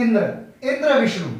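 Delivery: इंद्र and विष्णु with weight on इं and वि; stress on first syllable. Shown as a demonstration. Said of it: "इन पर ज्यादा ध्यान देते हैं".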